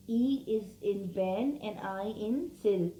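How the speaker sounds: pen and sil set apart clearly; syllable by syllable. Shown as a demonstration. Teacher splitting pencil into syllables for students. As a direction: sound out pen, then sil. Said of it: "So two syllables".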